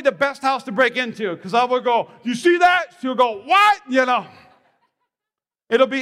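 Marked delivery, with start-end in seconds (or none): 2.2-2.9 high, loud alarmed "you see that"; mock startled shout. Pastor retelling his wife's night terror, mock startled shout. 3.4-3.8 high, loud startled "what"; startled shout. Retold or imitated. Pastor retelling his own jolted answer, startled shout.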